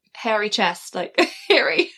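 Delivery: Harry turned into "hairy"; Canadian-style "hairy" for Harry; Canadian pronunciation. Shown as a demonstration. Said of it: "in Canada they say Harry".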